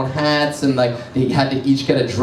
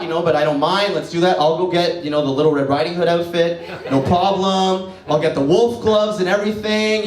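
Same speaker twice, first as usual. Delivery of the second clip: mock eager; 2 semitones higher than usual. Mock-eager agreeing to girlfriend.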